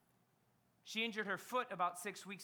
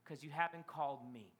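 low, softened dad voice; acted fatherly tenderness; gentle father; 7 semitones lower, 3 dB quieter than usual. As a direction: drop low to reassure a son. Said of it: "And the dad says".

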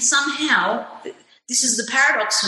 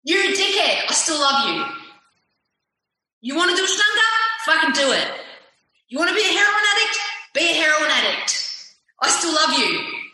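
higher mock husband, blunt but loving; a wife voices her husband's blunt acceptance, pitched up; imitating her husband; 4 semitones higher, faster than usual. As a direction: pitch up to play the husband saying go ahead. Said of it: "my husband doesn't put any limits on me".

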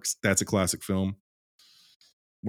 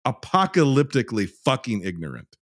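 exasperated rant; 5 semitones higher than usual. Real, not acted. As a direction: lean hard and long on each key word. Emphatic angry rant about ignorance.

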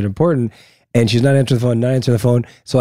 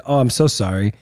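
nicely. Retold or imitated. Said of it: "And I said it nicely too".

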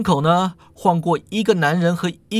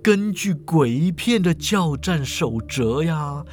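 slow, drawn-out character voice; teasing professor with stretched endings; unruffled old professor; slower than usual. Acted. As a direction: explain ghost rules at a leisurely pace.

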